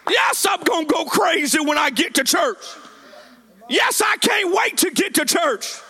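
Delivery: high, driving sermon climax; impassioned preaching. Real, not acted. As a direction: preach with rising fervor, punching each phrase. Preaching at full force.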